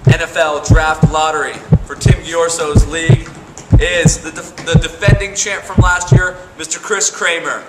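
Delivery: slow, booming draft announcement; loud announcer build-up. Acted. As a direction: build it up like a stadium reveal. Drum roll, building announcement.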